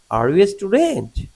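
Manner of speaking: big high lift on "student"; questioning tune that climbs steeply into "student"; yes-no question intonation. Shown as a demonstration. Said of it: "আরো বাড়বে".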